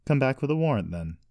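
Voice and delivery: defiant. A narrator's reading. Accused brother staring down his accusers, defiant. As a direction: dare them to prove it.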